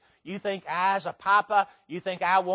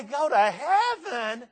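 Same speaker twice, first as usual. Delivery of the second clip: casual churchgoer; 6 semitones higher, 7 dB louder than usual. Retold or imitated. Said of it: "You say".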